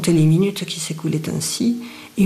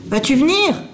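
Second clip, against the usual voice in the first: put-on higher, louder shout at the hidden child; shouted call; 7 semitones higher, 4 dB louder than usual. A narrator's reading. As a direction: bark her out from under the table. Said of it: "cria la Thénardier". (crié, plus fort et plus aigu)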